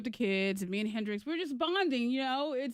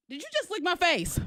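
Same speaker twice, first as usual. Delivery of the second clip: retold shocked question, pitched up; higher-pitched, stunned parent replaying the moment; 6 semitones higher than usual. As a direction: ask it in mock disbelief. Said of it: "it was shocking".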